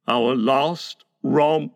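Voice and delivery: slow, heavy groan of regret. A narrator's reading. Father recalls the last game with his children, groaning. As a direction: groan it out slowly. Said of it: "Mister Darling groaned".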